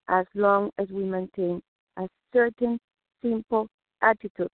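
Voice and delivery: slight emphasis on simple while the rest stays conversational; stress on simple. Shown as a demonstration. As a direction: lean on the word simple, a mild falling stress. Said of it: "with emphasis on the word simple".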